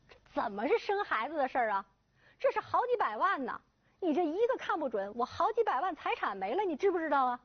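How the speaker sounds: high, heated yelling about the money; father yelling at the doctor over his inheritance; angry shouting. Acted. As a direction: rage over a lost fortune. Father shouts about lost fortune.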